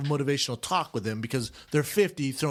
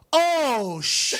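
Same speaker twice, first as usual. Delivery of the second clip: higher, hammed-up amazement; mock amazed room; 9 semitones higher, 4 dB louder than usual. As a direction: voice a room reacting to a highlight. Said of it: "I hear the room go".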